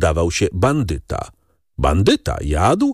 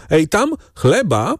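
high-pitched call, mildly raised voice; 10 semitones higher than usual. A narrator's reading. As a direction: call an order across the room. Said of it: "krzyknął". (zawołanie podniesionym głosem)

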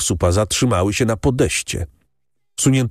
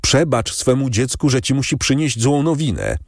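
a hint of a young girl pleading, higher; gently raised pleading voice of a weeping girl; lightly voiced tearful daughter; 7 semitones higher than usual. A narrator's reading. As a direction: daughter begging her father's pardon, lightly voiced higher. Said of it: "z twarzą zalaną łzami".

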